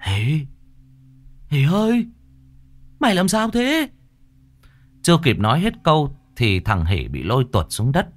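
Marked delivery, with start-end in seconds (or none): 0.1-3.9 high, frightened stammering call. Acted. Hoan calls to Hỷ after the scream, high frightened stammer. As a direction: call out for a friend who has vanished, terrified. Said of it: "lắp bắp kêu".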